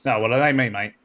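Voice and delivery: wobbly Cockney, drifting toward Australian; attempted Cockney accent. Crewman owns up to an ensign about the spiders, attempted Cockney accent. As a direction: have a rough go at Cockney. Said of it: "can you do the Cockney accent".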